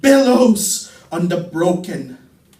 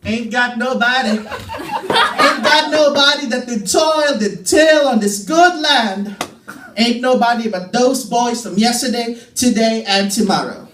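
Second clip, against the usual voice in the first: higher, fast, building to a shout; Langston Hughes-style blues; 4 semitones higher than usual. Acted. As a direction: preach it like a blues lament, rising to a shout. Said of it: "Langston Hughes".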